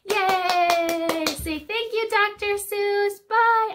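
cheerful. Real, not acted. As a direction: cheer with the class. Cheering goodbye with the class.

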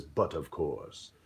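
low, soft, slow and grand; suave captain. Acted. Captain Freddy answering his friend, low slow gracious reply. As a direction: purr it like a gracious pirate. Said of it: "And Captain Freddy says".

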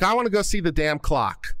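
mock-indignant retelling; mildly mad. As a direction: still a little bit mad about it. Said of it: "I'm still a little bit mad".

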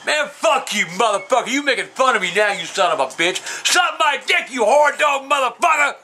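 indignant cussing-out; real riled-up insults; getting mad. Real, not acted. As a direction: cuss them out, jumping up in pitch. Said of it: "I'm getting mad".

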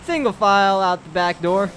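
mock flight attendant announcement; lightly put-on cabin crew voice; airline announcement. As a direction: address the cabin like airline staff. Plays airline staff before jumping out.

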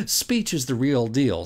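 slow, sly and knowing, a hint of a wink; a touch of smug irony; smug Socrates. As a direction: lightly play a smug Socrates winking at his reader. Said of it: "with a smug little wink".

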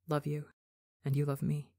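soft, low and drowsy; sleepy, hushed thought; sleepy murmur. A narrator's reading. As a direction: let it drift out half-asleep.

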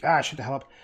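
mock-annoyed outburst, not serious; goofing around with fake anger; pretend angry. Shown as a demonstration. Streamer shows how he jokingly insults people, pretend angry. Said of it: "he pretended to get angry".

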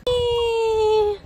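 drawn-out cheerful wee, rising; playful wee. Real, not acted. Child on the slide.

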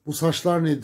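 a lighter echo of the mother's shriek; retold shout. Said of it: "diye bağırdı kadın böyle". (annenin bağırışını hafifçe tekrarlayan)

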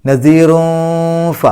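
very slow, high and loud നസീറൂഫ with a long hum before f; concealed n. Shown as a demonstration. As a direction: hide the n in a held nasal before the last syllable of നസീറൂഫ. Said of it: "ഇഖ്ഫാ ചെയ്യാം". (നസീറൂഫ: ഫാഇന് മുമ്പ് ഇഖ്ഫാ ചെയ്ത് ഓതുക)

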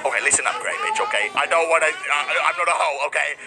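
a hint of a sassy bully; mock tough girl. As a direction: tell her off like a tough girl. Voicing a rude character quitting.

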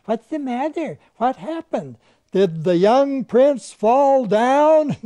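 imitating a small child, high and stretched out slow; a grown man doing a high, slow little-child voice; little kid's voice. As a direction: pipe up like a little kid asking earnestly. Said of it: "the first little girl says".

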